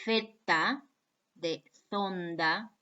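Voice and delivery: Z said with tongue between teeth, th-like; teacher models the interdental Z of zonda; Spanish Z demo. Shown as a demonstration. Teacher showing students the Spanish interdental Z. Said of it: "pronúncienla ustedes".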